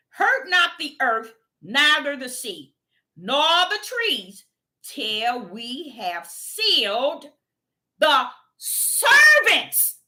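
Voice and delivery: slow, drawn-out reading of scripture; slow solemn verse, climbing at the end. Acted. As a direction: let each phrase ring out.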